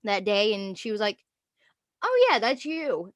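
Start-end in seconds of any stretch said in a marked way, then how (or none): 2.0-3.1 nonchalant. Retold or imitated. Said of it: "Like, just so nonchalant".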